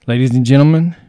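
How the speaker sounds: booming showman opening; ringmaster. Pretend. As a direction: announce it like a circus ringmaster. Botched show opening.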